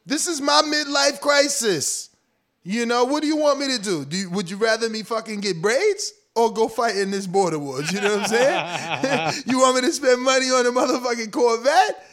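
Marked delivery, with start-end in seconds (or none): 0.0-7.9 higher, pleading mock argument; pleading husband. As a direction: explain yourself to your wife. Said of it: "you gotta tell, like".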